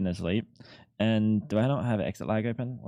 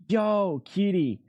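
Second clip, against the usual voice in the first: excited greeting; 7 semitones higher, much slower than usual. Real, not acted. Streamer greeting a generous gifter, excited. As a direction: greet the gifter with a happy shout-out.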